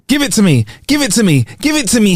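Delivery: high-pitched yell without much volume; insistent, high demand, repeated; mock yelling. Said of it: "she yelled".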